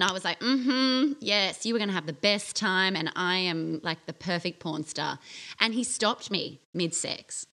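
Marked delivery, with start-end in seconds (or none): 0.4-5.2 playing the perfect porn star, half-mocking; mock seductive act. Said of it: "oh, putting it on".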